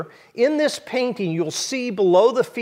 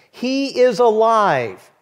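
proclaiming; 4 semitones higher, 3 dB louder, slower than usual. Acted. Preacher proclaiming the resurrection.

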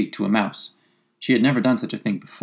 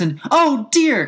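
high, loud, drawn-out dismay; sorrowful cry; 14 semitones higher, 5 dB louder, slower than usual. A narrator's reading. Alice realises she upset the mouse, sorrowful cry. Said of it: "cried Alice in a sorrowful tone".

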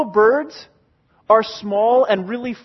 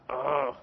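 low disgusted "ugh"; 8 semitones lower, 12 dB quieter than usual. Retold or imitated. Retold disgust at rain.

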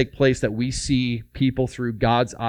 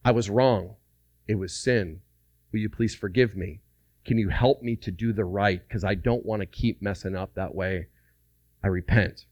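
softer, lower, earnest confession; mean every word, humbly; quiet heartfelt apology to his wife; sincere repentance; 4 semitones lower, 4 dB quieter than usual. Shown as a demonstration. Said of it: "and we say".

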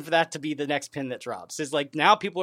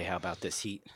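mock phrase; 11 semitones lower, 14 dB quieter than usual. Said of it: "you can't say".

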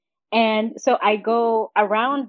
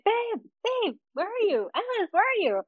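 higher pitched mock call for a missing partner; lightly imitating a worried call across the water; retold calling out; 11 semitones higher, 4 dB quieter than usual. She retells calling for her boyfriend Ellis at sea, mildly imitating a higher call. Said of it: "I started calling out for Ellis".

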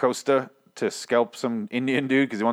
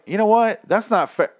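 high, loud indignant objection; mock protest; 11 semitones higher, 5 dB louder than usual. Vlogger defending a character to the screen, raised indignant protest. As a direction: protest on his behalf. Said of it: "And I was like".

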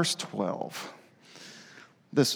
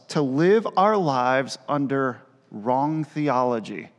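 slow sermon emphasis. Acted. Slow preaching build.

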